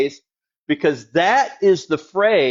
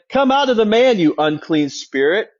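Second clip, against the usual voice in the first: Jesus's command, a touch raised; 4 semitones higher than usual. Acted. Preacher voicing Jesus casting out the spirit, commanding. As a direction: order the spirit out firmly. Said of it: "Jesus has been saying to him".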